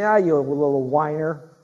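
slow, drawn-out mock scolding; mock dismissal. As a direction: brush off a whiner, drawing it out. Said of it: "Do you think God's gonna say".

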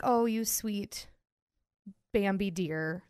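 slow, fading mock sympathy; mock pity. Talking about a non-drinking girl, slow mock pity. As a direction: pity her like a naive little fawn. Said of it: "And I was like".

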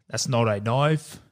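low, slow, bad Australian accent; Arnold Schwarzenegger's Australian accent. Host mocking an unconvincing accent, slow low fake Australian. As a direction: draw it out in a mock Australian accent. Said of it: "Arnold Schwarzenegger's Australian accent".

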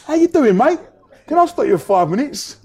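high, loud, chirpy sales patter; pushy street seller. Retold or imitated. Seller stopping a tourist on the high street, loud chirpy patter. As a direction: hail a passer-by like a pushy seller.

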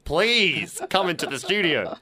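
drawn-out, playful on-air plea; mock pleading. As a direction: beg the listener, stretching it out. Pleads to a listener over air.

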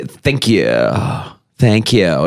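curt, brushing-off thank you; dismissive. Retold or imitated. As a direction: toss it off like you don't care. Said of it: "It's almost a dismissive".

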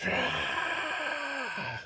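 long, high, softened wail; sung cry. A narrator's reading. Hidden voices haunt the sleeper, singing a wail. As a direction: hold a high airy cry, then drop. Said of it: "sang the voices".

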